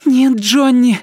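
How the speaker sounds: loud, high woman's protest; urgent objection. A narrator's reading. Sick girlfriend objects to leaving.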